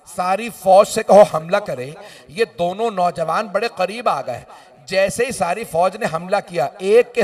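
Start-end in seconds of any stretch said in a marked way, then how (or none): 0.1-2.0 commanding call. Acted. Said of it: "आवाज दी".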